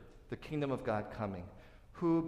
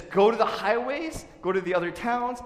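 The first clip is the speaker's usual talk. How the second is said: higher, louder sweeping order; commanding master; 9 semitones higher, 8 dB louder than usual. Retold or imitated. Master ordering his servant to the highways, loud and commanding. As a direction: send the servant out with force. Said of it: "So he says".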